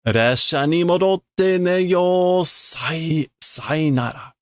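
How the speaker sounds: decide to go back to the train; lightly voiced tired goodbye; giving up. Character gives up and leaves.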